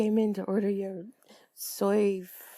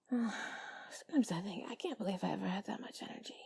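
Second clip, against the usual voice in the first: soft intimate ASMR whisper; sultry narrator; 10 dB quieter, faster than usual. Real, not acted. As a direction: breathe the words close to the mic. Whispers steadily to the listener.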